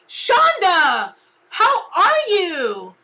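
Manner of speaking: high, loud, slow, tearful greeting; choked up. Real, not acted. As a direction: fight back tears as you greet a grieving friend. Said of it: "I'm gonna get all choked up".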